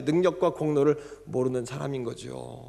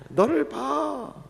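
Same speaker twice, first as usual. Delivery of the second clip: acted tenderly; 11 semitones higher, 4 dB louder, much slower than usual. Shown as a demonstration. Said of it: "연기를 해야 돼요".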